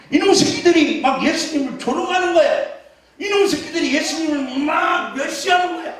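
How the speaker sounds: hammed-up aggrieved rant; acted indignation. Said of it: "승질나가지고".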